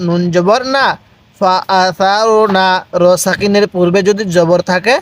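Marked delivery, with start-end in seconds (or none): 1.4-2.7 slow, syllable by syllable like a tutor; slow spelled-out reading. Shown as a demonstration. Teacher spelling a Quran word for students, slowly. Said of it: "তাহলে ফা আ সার".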